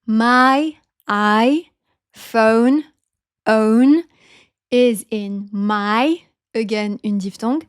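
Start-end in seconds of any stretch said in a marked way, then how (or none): 0.0-6.2 MY and PHONE with stretched, gliding vowels; diphthongs picked out. Shown as a demonstration. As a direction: isolate the double vowel in PHONE as "own". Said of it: "les diphtongues, c'est".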